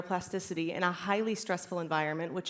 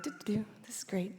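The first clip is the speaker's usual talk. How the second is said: happy berry picker; 7 dB quieter, faster than usual. Pretend. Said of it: "and you're like".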